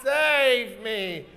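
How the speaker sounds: drawn-out hammy cry for rescue; damsel's plea. Shown as a demonstration. Host showing Cindy Lou running backwards, drawn-out mock plea. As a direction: wail it long, in mock distress. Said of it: "run backwards going".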